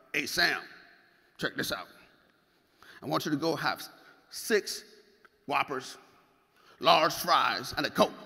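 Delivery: lightly imitated Mississippi bodybuilder, a bit low; a hint of a Mississippi guy's voice; Patrick Lynn. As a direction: do a light take on a Mississippi coach pitching help. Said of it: "His voice goes exactly like this".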